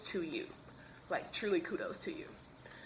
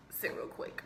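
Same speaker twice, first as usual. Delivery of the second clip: half-whispered, softer call to her husband; hushed aside; 6 dB quieter than usual. Real, not acted. To her husband off camera, a hushed quick call. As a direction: quietly wave him over mid-story.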